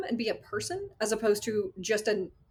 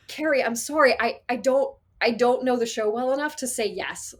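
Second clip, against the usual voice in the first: flustered apology; 4 semitones higher, 6 dB louder than usual. Retold or imitated.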